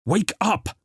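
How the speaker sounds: high shout to wake her. Acted. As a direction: yell it at her. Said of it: "shouted Glospin".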